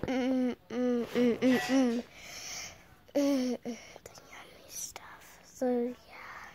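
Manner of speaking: slow, hushed savoring of food; whispered yum. Pretend. Child whispering over the yummy stuff. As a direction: whisper it like a tasty secret.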